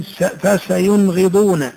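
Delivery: فسينغضون slowly, ن clearly sounded before غ; very slow teaching read; slow clear nun. Shown as a demonstration. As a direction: spell out فسينغضون with a plain nun. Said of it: "تقرأ".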